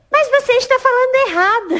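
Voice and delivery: high, loud, hammed-up protest; exasperated boss. Boss insists the employee speaks wrong, high and loud. Boss's exasperated retort in retold argument.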